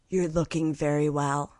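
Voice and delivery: a mild imitation of condescending kindness; patronizing sympathy. Saleswoman telling Britney she looks well, softly and patronizingly. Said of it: "sympathetically and patronizingly".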